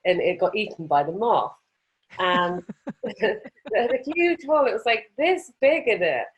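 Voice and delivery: giggling as she tells it; real laughter breaking into the words; laughing through words. Real, not acted. Laughing while telling rug story.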